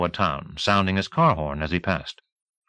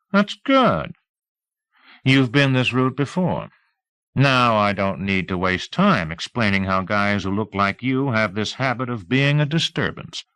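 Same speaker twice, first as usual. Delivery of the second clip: a hint of a smug lawman warning a drifter; small-town sheriff, mocking; 2 semitones higher than usual. Sheriff needling the drifter he's driving out of town, lightly voiced mock politeness.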